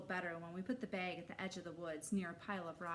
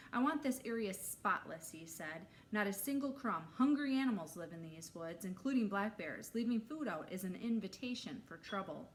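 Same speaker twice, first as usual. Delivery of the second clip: stern camp counselor; 2 semitones higher, 3 dB louder than usual. Acted.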